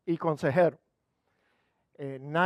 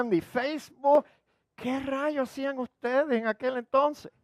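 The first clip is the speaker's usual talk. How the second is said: high, mocking teen girl voice; teen daughter; 6 semitones higher than usual. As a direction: play the puzzled teenage daughter. Hija joven pregunta a su mamá. (voz de adolescente burlona, más aguda)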